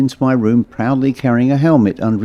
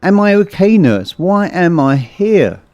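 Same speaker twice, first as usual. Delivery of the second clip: higher, urgent questions with mild panic; panicked; 7 semitones higher, 3 dB louder than usual. Acted. Patient waking in hospital interjects to the nurse, panicked. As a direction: interject in alarm, last question drawn out slowly. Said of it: "I panicked and interjected".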